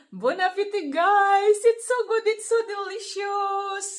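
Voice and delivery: high, loud, gushing about the food; bubbling over with delight; delighted sign-off. Real, not acted. Signing off while eating.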